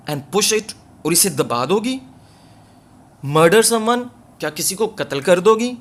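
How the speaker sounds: can't believe she means it; husband's disbelieving question to his wife; incredulous. Acted. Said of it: "He looked incredulous".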